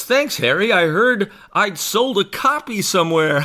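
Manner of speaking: Bill. Acted. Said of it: "And Bill says".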